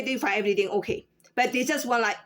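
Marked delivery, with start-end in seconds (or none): 0.0-1.1 quick low throwaway version of the greeting; rushed flat greeting. Shown as a demonstration. Clerk contrasting the same greeting said quick and flat. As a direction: rattle it off fast and low. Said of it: "treated the same way".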